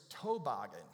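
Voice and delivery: toboggan said TOE-boggan; North Carolina pronunciation. Shown as a demonstration. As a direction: lean on a full TOE in toboggan. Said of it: "not toboggan".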